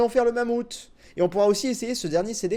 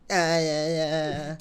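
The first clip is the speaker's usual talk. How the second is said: bleating goat sound; 6 semitones lower, 5 dB quieter, much slower than usual. Pretend. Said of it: "Tu sais que tu fais la chèvre".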